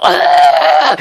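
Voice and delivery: short imitated yelp of frustration; a quick retold shriek; mild mock yell. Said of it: "he's all".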